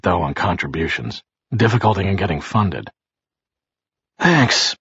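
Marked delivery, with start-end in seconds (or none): 4.2-4.8 grating shaky. A narrator's reading. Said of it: "he grated shakily".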